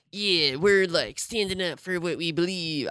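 light attempt at an Australian accent; a loose, half-hearted Australian accent. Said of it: "an attempt at an Australian accent".

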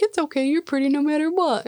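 high, lightly acted sweet-talk; mock sweet reassurance. Host voicing ladies' man consoling Rain, mock sweet. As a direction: console her in a lifted, hammed-up voice.

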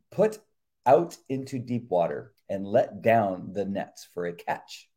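steady reverent Bible reading; devotional reading. Acted. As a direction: read it like scripture aloud. Reads scripture and devotional.

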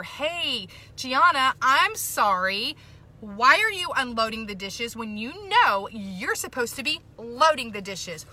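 exasperated parent, stretched words for emphasis; mock scolding. Mother pulling up her daughter over the dishes, mock scolding. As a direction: act out a parent taking a daughter to task. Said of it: "I could tell my daughter".

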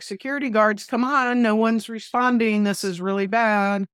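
retelling an anxious inner plea; mild retold alarm. Retold panicked human voice wanting help.

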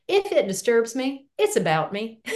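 a light, lilting Southern accent, gently voiced; borrowing a Georgia consultant's Southern accent. Quoting her Georgia colleague's phrase in a light Southern accent. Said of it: "I can't say this in, without the Southern accent".

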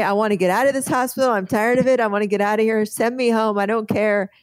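mock the patient barking orders; bossy patient. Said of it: "start barking orders at people".

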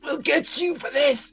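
a small fish swearing payback; bubbling fish threat. Acted. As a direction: speak as a vengeful trout through the water. Fish threaten through breath.

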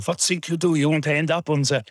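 put-on high, hectoring Swiss accent; terrifying Swiss-accented shouting. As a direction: imitate a Swiss teacher berating pupils. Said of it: "he would scream and shout at us like this".

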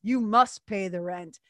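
slow, lightly voiced menacing villain. Cartoon villain demanding rent, lightly voiced and slow. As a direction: lean on it like a mustached cartoon baddie. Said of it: "the villain would go".

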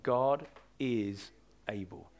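quiet, deliberate conviction; slow, soft emphasis. Shown as a demonstration. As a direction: press the words gently into the heart. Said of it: "I just want that to go deep down".

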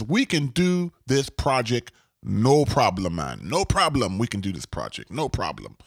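light Jamaican lilt, falling away at the end; Jamaican accent. Acted. Contractor promising a client he can do the job, light Jamaican accent. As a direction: imitate an assured contractor with a slight Jamaican accent. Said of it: "I put this Jamaican accent".

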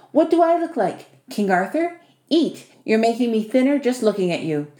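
lightly voiced bossy host, lively pitch swings; a touch of teasing, commanding host; Vasily. Host ordering his young guest to eat, lightly bossy and teasing.

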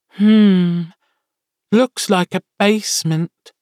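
high, squeaky little familiar; high creature voice. Acted. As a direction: pitch it way up like a small imp. Sammy looks around.

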